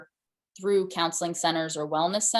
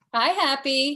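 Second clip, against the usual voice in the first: higher-pitched hello to a dog; greeting a dog; 8 semitones higher, 3 dB louder, slower than usual. Real, not acted. Speaker breaks off to greet the dog, higher-pitched greeting.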